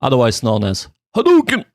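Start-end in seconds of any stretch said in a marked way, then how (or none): 1.1-1.6 mock battle cry, high and loud; game attack cry. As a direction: call it out like a fighting-game special move. Mimics video game attack call.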